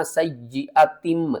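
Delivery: سیئاتم drawn out slowly, ending on a clear م; سیئاتم slowly recited with the م sound; recited word. Shown as a demonstration. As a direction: stretch سیئاتم, closing on م not نون. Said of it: "کس طرح؟".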